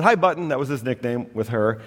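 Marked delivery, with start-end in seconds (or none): 0.0-0.5 imitating grandma. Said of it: "She said".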